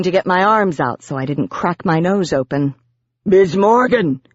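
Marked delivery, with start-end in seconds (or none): 3.2-4.2 restrained shout in a put-on gargoyle voice. A narrator's reading. Biz to Morgan fallen in the snow, shouting. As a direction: call out urgently as Biz. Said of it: "Biz tried again".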